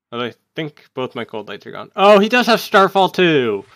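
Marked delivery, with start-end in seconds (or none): 2.0-3.7 loud, high burst of surprise; surprised outcry. Real, not acted. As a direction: exclaim it, caught off guard. Surprised by opponent's card.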